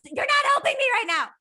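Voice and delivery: fast, sharp whisper; whispered snap. Retold or imitated. Telling her intuition off mid-panic, fast whispered snap. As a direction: hiss it under your breath. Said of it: "inner dialogue".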